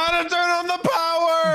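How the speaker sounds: high, flat youtuber announcer; tutorial announcer voice. Retold or imitated. Mocking tutorial voice.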